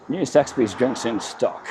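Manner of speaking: slow, announcer-style sign read; radio announcer voice. Shown as a demonstration. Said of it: "Sound like a radio announcer".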